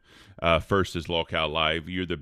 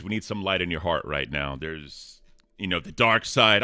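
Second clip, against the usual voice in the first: ordinary talk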